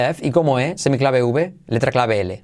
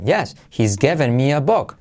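"given" stressed in the sentence. Shown as a demonstration. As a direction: hit the word "given". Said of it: "podrías acentuar given". (acento en "given")

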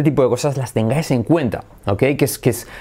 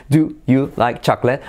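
imitating a halting "Do, you, like, chocolate"; mock a politician's word-by-word English; lightly mimicked, unlinked foreign speaker; ex-president's halting English. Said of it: "que hablaba así".

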